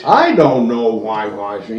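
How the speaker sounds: lightly put-on Black American accent; a hint of mock Black American accent; Hillary Clinton. Co-host mocking a politician's accent change, lightly put-on Black American accent. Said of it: "do that accent impersonation".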